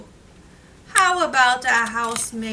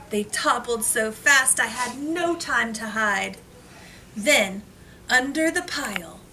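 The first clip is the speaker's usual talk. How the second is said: put-on reading to children. Reads picture book to class.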